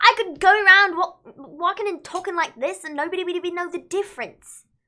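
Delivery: loud, high-pitched, affected put-on British accent. Speaker shows they could pass for british, speaking in a british accent. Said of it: "I could I could be British".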